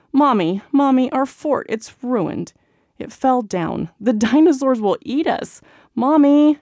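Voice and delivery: high, loud wailing cries for mommy; shrieking kids. A narrator's reading. Kids cry to mommy after the fort falls, high and loud. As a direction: wail it like scared little kids. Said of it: "shrieks and cries of".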